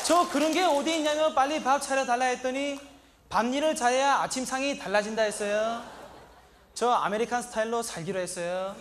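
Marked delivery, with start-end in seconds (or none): none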